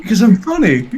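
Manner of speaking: quick comeback with a laugh in it; amused comeback. Real, not acted. Guest answers why he keeps being invited, amused. Joking answer to host's jab.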